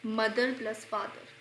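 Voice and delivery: drawn-out mother plus father, each word apart; very slow explanation. Shown as a demonstration. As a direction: spell it out slowly for the class. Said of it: "explaining meaning slowly".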